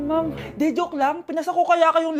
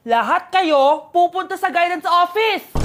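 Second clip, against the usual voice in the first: teacher's shout; 4 dB louder, slower than usual. Acted. Teacher scolds fighting class.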